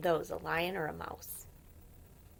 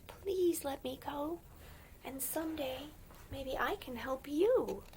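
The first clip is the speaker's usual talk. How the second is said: begging mouse; 6 semitones higher than usual. Acted. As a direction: plead like a tiny mouse. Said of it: "The little mouse begged".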